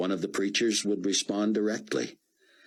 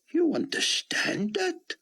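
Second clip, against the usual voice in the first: hushed, high, slow whisper; slower than usual. Acted. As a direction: whisper it in disbelief. Rabbi quietly asks Buck.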